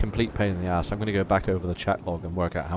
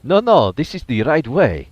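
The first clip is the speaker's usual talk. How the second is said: loud mock protest; 4 semitones higher, 9 dB louder than usual. Real, not acted. Defending his retreat, joking.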